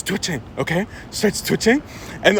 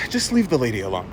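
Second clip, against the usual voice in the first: tag; 8 semitones lower, 5 dB quieter than usual. Retold or imitated. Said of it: "then just goes".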